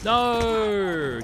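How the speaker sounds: sudden high loud cry; real frustrated shout; dismayed shout. Real, not acted. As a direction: yell as the game kills you. Just killed himself in game.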